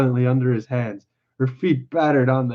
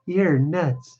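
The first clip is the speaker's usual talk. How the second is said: higher, mildly mocking woman; lightly voiced scornful wife; 4 semitones higher than usual. Wife laughs at simple man, lightly mocking. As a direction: lightly play a wife poking fun.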